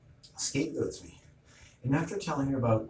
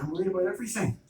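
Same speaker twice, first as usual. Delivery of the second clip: higher, louder and fast, pleading; exasperated outburst; 8 semitones higher, 4 dB louder, faster than usual. Retold or imitated. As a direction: blurt it out, fed up and rushed. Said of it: "it's like".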